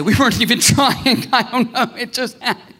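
high-pitched mock giggling friend; giggly friend imitation. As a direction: laugh through it like a clueless, lucky friend. Mimics carefree pregnant friend, laughing.

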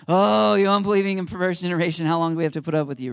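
mock sighing complaint, tumbling out fast; exasperated sigh. Believers watching the news, sighing in exasperation. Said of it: "He sighs deeply. He's like".

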